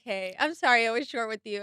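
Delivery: a hint of the husband, low and quiet; imitating husband's apology. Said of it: "He's like".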